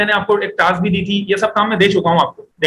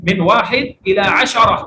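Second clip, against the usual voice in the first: slow model reading; slower than usual. Shown as a demonstration. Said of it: "بولیں".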